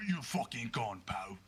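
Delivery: low, gruff-tempered bouncer; half-orc bouncer. Acted. The bouncer ushers a fighter out, low-voiced dismissal. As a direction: throw him out, low and unbothered. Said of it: "the half-orc bouncer".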